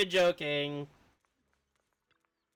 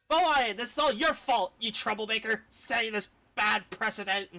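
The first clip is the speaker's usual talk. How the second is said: a hint of a stern elder chiding, slightly raised; lightly voiced scolding elder; 5 semitones higher than usual. Streamer voicing an elder scolding a troublemaker, mildly stern. Reads character dialogue aloud.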